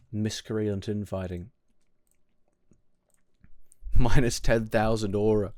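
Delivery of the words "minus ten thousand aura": laughing. Real, not acted. Laughing at chat's jab.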